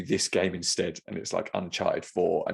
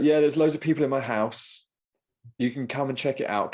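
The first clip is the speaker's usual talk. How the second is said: imitating the seller; 5 semitones higher, 3 dB louder than usual. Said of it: "And he's like".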